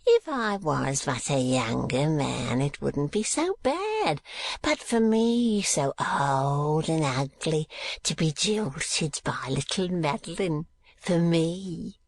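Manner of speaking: mock self-pity, swooping in pitch; sneering old miser. A narrator's reading. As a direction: mimic the rival's words with a sneer. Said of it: "sneered Arthur Gride".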